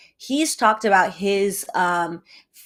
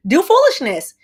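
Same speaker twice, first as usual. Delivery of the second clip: mock rapper voice; 10 semitones higher, 8 dB louder than usual. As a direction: play the careless celebrity. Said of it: "he's like".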